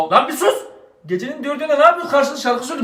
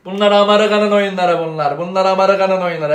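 put-on pompous old father; 3 semitones lower than usual. Father lectures son that it's America's game. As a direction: declaim like a proud elder. Father preaches national pride.

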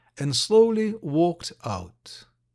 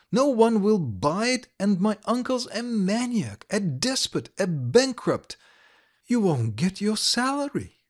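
put-on higher, insistent young lady; Ilovaisky, dismayed; 5 semitones higher than usual. Ilovaisky warning Likharev off the mines, higher and insistent. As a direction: warn him off, higher pitched.

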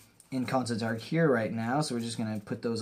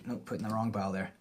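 normal talking voice

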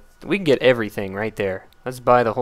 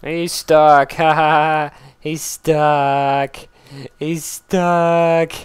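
louder, laughing and gleeful; laughing delight; 3 semitones higher, 5 dB louder, much slower than usual. Real, not acted. Gamer laughing at an enemy caught on the wall, gleeful. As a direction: crow over the stuck enemy.

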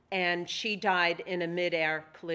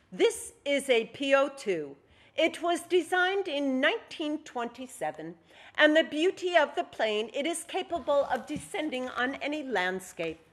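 Soviet pilot voice; 7 semitones higher, 5 dB louder than usual. Acted.

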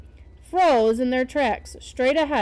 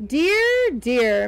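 moaning; 2 semitones higher, 5 dB louder than usual. Acted. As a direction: moan it in despair. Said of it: "Minna moaned".

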